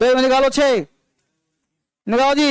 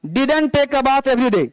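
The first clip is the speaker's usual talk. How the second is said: each word drawn out slowly; slow, deliberate storybook reading; slow read-aloud; 2 semitones higher, much slower than usual. Shown as a demonstration. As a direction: read it slowly, letting every word land. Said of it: "इसको पढ़ना है".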